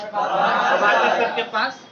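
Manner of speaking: loud, drawn-out class shout; shouted answer. Real, not acted. Students answering the maths teacher's question on request, shouting. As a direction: shout it out slowly in chorus. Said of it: "आप लोग चिल्ला के बोलिए".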